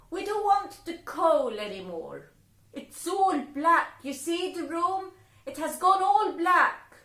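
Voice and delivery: high, loud bossy fairy voice; high, loud wicked fairies giving orders. Acted.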